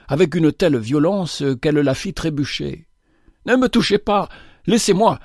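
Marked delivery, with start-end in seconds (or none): 3.5-4.3 put-on raised, higher rasping cry of a drunk woman; hoarse, desperate shout. A narrator's reading. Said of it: "cria-t-elle d'une voix rauque". 4.7-5.2 Laissez-moi cried high with a hard falling end; Laissez-moi, rough and falling; hoarse cry. A narrator's reading. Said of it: "cria-t-elle d'une voix rauque".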